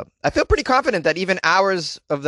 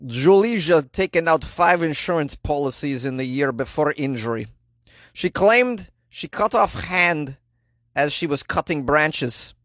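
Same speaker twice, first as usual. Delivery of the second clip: a light put-on Slovenian accent. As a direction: read the news in a hint of Slovenian accent. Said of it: "I can do an accent that's close".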